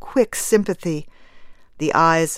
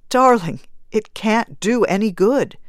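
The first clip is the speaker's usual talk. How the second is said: pleading; 4 semitones higher, 3 dB louder than usual. Acted. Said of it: "he begged".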